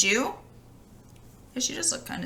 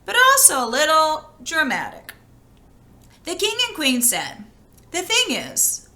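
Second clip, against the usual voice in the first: lively read-aloud voice for a fairy tale; storybook reading. A narrator's reading. Reading a fairy tale to children, in a lively storytelling voice. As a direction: tell it like a bedtime story to children.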